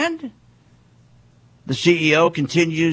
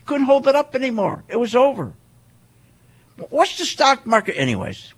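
usual speaking voice

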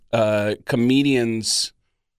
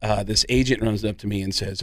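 usual speaking voice

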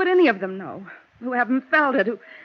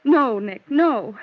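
mild retold yell; 5 dB louder, much slower than usual. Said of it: "I heard Mel yell out".

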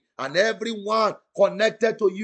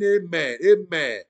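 shouted amen; 3 semitones lower than usual. Shown as a demonstration. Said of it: "Somebody shout a believing amen".

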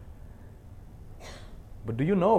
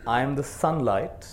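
slow, measured reading of a poem, line by line; poem recitation; slower than usual. Acted. Teacher leads the audience through a memorized poem, slow recitation. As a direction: recite it slowly so the room can echo you.

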